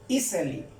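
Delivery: "easily" as EE-seh-lee, falling at the end; pronunciation model. Shown as a demonstration. Teacher showing learners how "easily" sounds, said EE-seh-lee. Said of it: "Y se pronuncia".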